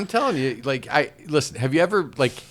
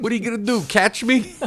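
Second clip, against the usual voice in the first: comic put-on Cuban accent, pitched up; 9 semitones higher than usual. Voicing a peach thief's taunt in a story: put-on cuban accent. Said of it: "That's my Cuban accent, apparently".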